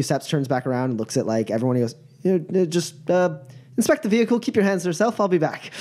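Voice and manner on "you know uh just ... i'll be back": hurried officer. Acted. GM voicing officer rushing off.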